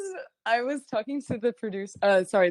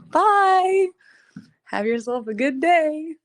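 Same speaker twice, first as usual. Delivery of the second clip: sing-song mock goodbye; 8 semitones higher, 5 dB louder, slower than usual. Mock farewell to those who leave.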